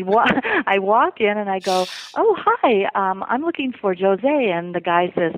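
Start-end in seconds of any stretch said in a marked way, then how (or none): 2.2-4.5 chirpy retold greeting. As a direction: re-enact a polite, perky shop entrance. Retelling walking into the salon.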